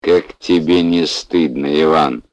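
slow, reproachful tone. Acted. Patient scolds the noisy lad, slow reproach. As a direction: shame him gently but firmly. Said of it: "укоризненно сказал один".

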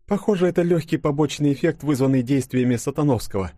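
tentative explanation, pitched well up; Юля. A narrator's reading. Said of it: "предположила Юля".

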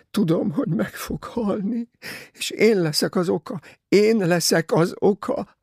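high, wailing self-blame; sobbing despair. A narrator's reading. Sobbing girl blames herself to Poirot, high and wailing. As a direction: cry it out, broken with guilt. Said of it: "zokogni kezdett".

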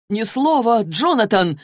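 acted yell, high and forceful; angry yell. A narrator's reading. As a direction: shout it as an urgent ban. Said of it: "заорал тот".

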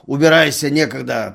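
loud, harsh dismissal; rude angry shout. A narrator's reading. Constable shouting at Dunya, loud and rude. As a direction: bark at her to go away. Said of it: "злой, грубый окрик".

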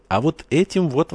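high-pitched exclamation; exclaiming. A narrator's reading. Евангел answers the major's question, exclaiming. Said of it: "воскликнул Евангел".

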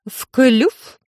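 high, eager crow. A narrator's reading. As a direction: squawk it greedily. Crow demands coin.

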